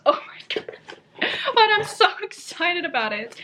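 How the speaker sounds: breathless whispered delight; excited whisper. Real, not acted. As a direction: hush it like a precious secret. Whispering over the cat poem book.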